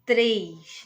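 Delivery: "três" with a clear tapped R; R batido. Shown as a demonstration. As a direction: show the tongue tap after the T in "três". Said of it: "ele bate num dente". ("três" com R batido, bem articulado)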